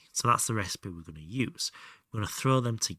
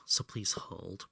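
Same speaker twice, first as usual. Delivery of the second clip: whispering; 3 semitones lower, 6 dB quieter, slower than usual. Real, not acted. Whispered aside.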